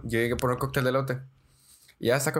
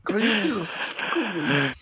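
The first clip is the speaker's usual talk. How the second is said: mock panic; 7 semitones higher, slower than usual. Begging friend to shut up.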